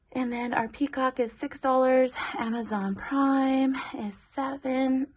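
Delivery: slightly breathless, pregnant and winded; out of breath. Real, not acted. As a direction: talk a little short of breath. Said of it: "Sorry if I sound out of breath".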